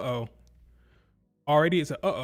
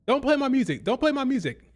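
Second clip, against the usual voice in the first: higher, mocking squeaky yell; mock screaming; 9 semitones higher than usual. Mocking Tiffany yelling at Jade, squeaky mock scream. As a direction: parody a wrestler screaming at her rival. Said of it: "screaming at Jade Cargill".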